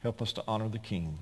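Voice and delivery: subdued prayer with long pauses; unhurried, reverent ending; closing prayer. Real, not acted. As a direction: bring the prayer gently to a close. Closes the prayer.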